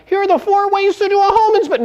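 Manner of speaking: high put-on presenter voice; mock boring agent. Mocking an agent's boring short-form video, high put-on voice. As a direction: parody a dull real estate tutorial. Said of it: "Because you're like".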